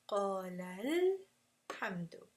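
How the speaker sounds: "qala al-hamdu" slow, with a lift held on "al"; nabr inflection. Shown as a demonstration. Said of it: "you did a nabr".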